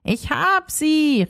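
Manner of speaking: slow call from a distance; calling from afar. Acted. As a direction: call across the street, drawn out. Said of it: "rief Rumpel von weitem".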